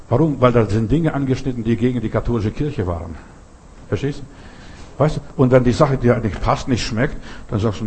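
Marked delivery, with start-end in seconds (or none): 3.9-5.2 unvoiced, slow whisper; slow secretive whispered question. Real, not acted. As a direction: lean in and whisper it. Whispered aside to listener.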